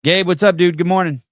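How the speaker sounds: big cheerful hey to Gabe; excited greeting. Real, not acted. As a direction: call out happily to a friend arriving. Greeting a friend who just arrived.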